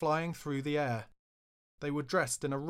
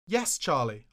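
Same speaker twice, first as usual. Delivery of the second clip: thundered; 2 semitones higher, 5 dB louder, slower than usual. Retold or imitated. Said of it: "I thundered".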